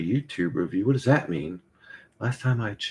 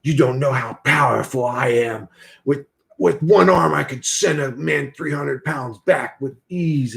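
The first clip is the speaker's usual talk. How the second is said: a lightly voiced boastful Santos; Santos imitation; 3 semitones higher, 4 dB louder than usual. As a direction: puff up like a bragging guru. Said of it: "He's like".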